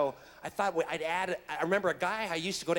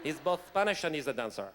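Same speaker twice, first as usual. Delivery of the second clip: low, put-on Spanish accent; lightly mock Spanish dancer voice; 4 semitones lower than usual. Shown as a demonstration. Actor explaining Jace's combo in a put-on Spanish accent. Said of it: "so he's got this combo".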